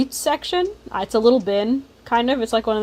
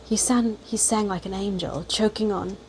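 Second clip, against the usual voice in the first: put-on British accent; 2 semitones lower, 4 dB quieter than usual. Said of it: "we're giving him a British accent".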